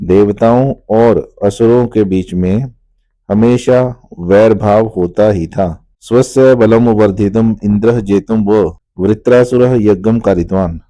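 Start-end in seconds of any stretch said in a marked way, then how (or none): 6.0-10.8 measured reading of a Sanskrit prose line; recited Sanskrit. Shown as a demonstration. Teacher reciting the Sanskrit sentence to students. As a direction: read the Sanskrit clearly, line by line.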